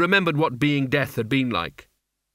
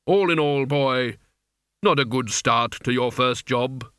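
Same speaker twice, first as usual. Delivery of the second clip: Death's voice; 2 semitones higher than usual. Acted. Death rebukes his apprentice.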